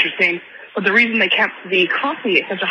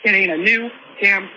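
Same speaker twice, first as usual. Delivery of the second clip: out of breath from walking; talking while walking, breathless. Real, not acted. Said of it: "I'm out of breath again 'cause I'm still walking".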